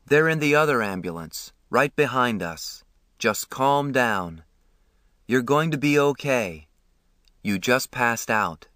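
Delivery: a calm, kindly man, voiced lightly; lightly voiced ambulance man. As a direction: reassure the boy gently. Ambulance man calms the boy.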